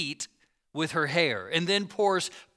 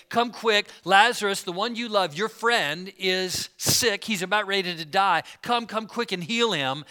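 urgent plea; 2 semitones higher, 4 dB louder than usual. Retold or imitated. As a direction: plead for quick help on a friend's behalf. Acted urgent message to Jesus.

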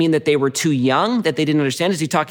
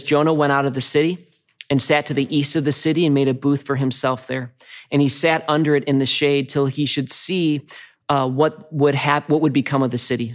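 scripture reading. Acted. Reads the Jonah passage aloud.

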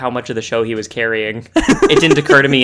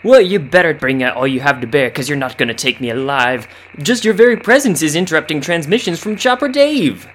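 defiant hermit voice; 3 dB louder than usual. Acted.

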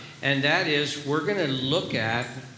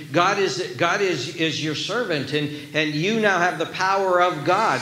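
mock prosperity preacher, louder and higher; name it claim it preacher; 3 semitones higher, 4 dB louder than usual. Preacher mocking prosperity preachers to his congregation, hammed-up preaching voice. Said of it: "They talk like this".

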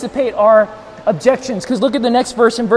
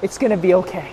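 gentle, lowered reassurance; tender comfort; 3 semitones lower, 5 dB quieter than usual. Acted. God holding us and comforting, tender. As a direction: soothe as if holding someone close. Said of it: "this tenderness from God".

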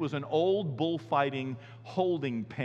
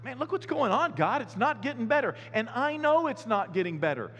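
much higher, exasperated; despairing complaint to God; 6 semitones higher than usual. Retold or imitated. Pastor complaining to God things only get worse, high and exasperated. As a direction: complain to God that nothing improves. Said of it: "it's like".

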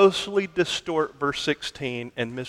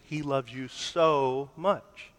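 slow down and lengthen "so" before a soft "much"; softer, lingering "so much"; stress on SO MUCH; 6 dB quieter, slower than usual. Shown as a demonstration. Preacher voicing the wrong answer to the congregation, drawn-out "so". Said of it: "inevitably ends with the wrong answer, answer being".

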